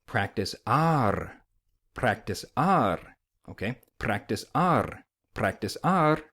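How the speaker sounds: practice R slowly with a tapped R; flapped R. Shown as a demonstration. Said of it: "So you're gonna say".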